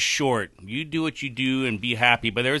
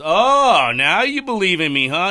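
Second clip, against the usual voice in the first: mock-reproachful God; 4 semitones higher, 7 dB louder than usual. God to a frightened nonbeliever, mock-reproachful. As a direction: play God catching out a doubter. God answers the man in joke.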